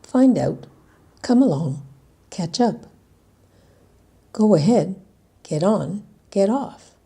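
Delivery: loud, measured list of phrases; word-list demonstration. Shown as a demonstration. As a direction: present each phrase as a separate model for learners. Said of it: "Here are the ones you've heard".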